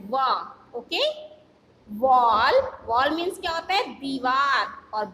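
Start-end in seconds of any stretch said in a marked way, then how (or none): 0.1-0.3 वा with rounded lips, no b; वा, glide through rounded lips; w sound demo. Shown as a demonstration. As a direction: show the W sound as वा. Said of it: "ये आपकी आवाज निकालता है".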